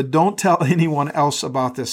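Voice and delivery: requoted lightly with a small laugh; amused repeat. Shown as a demonstration. Pastor pausing on the verse for the church, lightly amused. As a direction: chuckle through the repeated warning. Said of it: "pause here on the".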